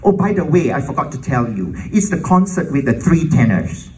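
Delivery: an offhand afterthought, key words punched; mock nonchalant. Orchestra lady adding a forgotten detail, mock nonchalant. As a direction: drop the news as if by the way. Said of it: "like, nonchalant".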